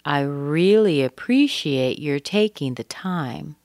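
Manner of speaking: "really" stressed, slow, rising end; slow model sentence. Shown as a demonstration. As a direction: repeat it slowly with weight on "really". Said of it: "it's very common to say".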